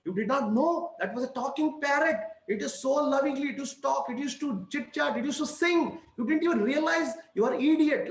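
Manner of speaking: retold husband telling off his wife, hammed up; angry scolding. Husband scolds his wife for cooking the talking parrot, mock angry. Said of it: "he got super angry and started firing the wife".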